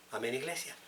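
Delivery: ordinary talk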